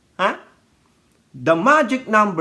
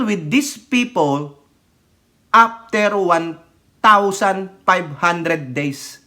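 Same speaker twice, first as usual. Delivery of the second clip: slow firm quote; slower than usual. Retold or imitated. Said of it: "Sinabi na ng First Lady".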